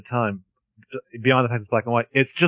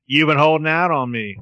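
put-on punched old-movie gangster line; a slightly raised, emphatic tough-guy impression; Edward G. Robinson; 3 semitones higher, 3 dB louder than usual. Host imitates the offscreen robot's movie line, emphatic impression. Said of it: "doing their best Edward G. Robinson".

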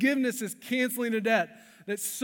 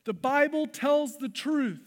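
louder, higher and slow, punching "Bible"; emphatic proclamation; 6 semitones higher, 5 dB louder than usual. Shown as a demonstration. Preacher driving home his refrain, loud and slow. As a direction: ring it out as the sermon's climax. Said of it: "repeated refrain, climax take".

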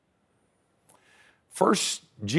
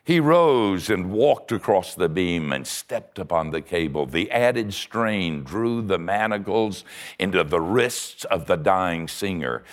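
ordinary talk

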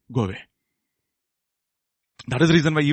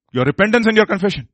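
higher, firmer preacher's answer; raised answer; 4 semitones higher than usual. Acted. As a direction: lift the voice to drive the answer home.

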